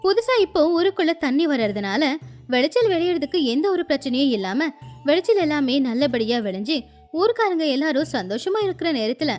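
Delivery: plain reading voice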